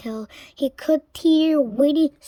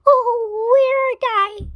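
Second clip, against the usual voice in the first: high, fast, louder cry; high frantic witch; 11 semitones higher, 5 dB louder than usual. A narrator's reading. Winnie searching for her spell book, frantic cry. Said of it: "she cried".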